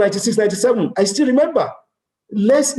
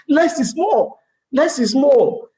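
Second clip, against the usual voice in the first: raised motto; 8 semitones higher, slower than usual. Shown as a demonstration.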